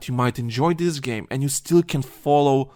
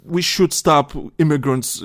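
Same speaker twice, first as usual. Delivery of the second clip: much higher and louder hammed-up pundit voice; mock right-wing Captain America; 4 semitones higher, 4 dB louder than usual. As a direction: play a blustering right-wing guy, half-hesitant. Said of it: "person's like".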